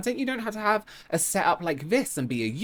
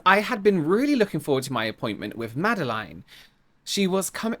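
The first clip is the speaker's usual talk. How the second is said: put-on English accent; 3 semitones higher than usual. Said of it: "I hate saying that in an English accent".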